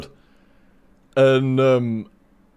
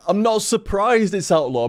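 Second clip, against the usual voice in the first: unsurprised; 6 semitones higher than usual. Shown as a demonstration. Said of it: "So it was more like that".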